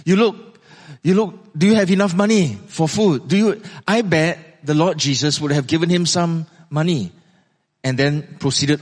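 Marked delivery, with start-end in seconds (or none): 0.1-3.6 higher, friendly check-in; lightly acted kind concern; kindly greeting. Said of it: "speak to him very kindly".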